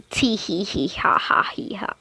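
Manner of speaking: soft unvoiced tee hee giggle; creepy whispered giggle. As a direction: giggle under your breath, creepy.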